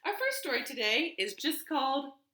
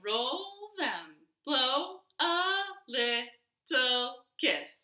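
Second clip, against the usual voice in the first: action rhyme; much slower than usual. Shown as a demonstration. Storytime leader chanting a finger-play for toddlers. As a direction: bounce the rhyme along for the toddlers.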